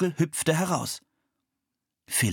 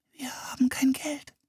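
small frightened whisper; timid whisper. A narrator's reading. Anne whispers to Leonardo that they have no money. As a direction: confess it under your breath. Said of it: "flüsterte Anne".

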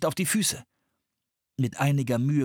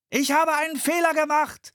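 much higher, louder reply; shouted back; 4 dB louder than usual. A narrator's reading. Philipp shouts back to Anne in the storm. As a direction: shout it against the wind. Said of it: "schrie er zurück".

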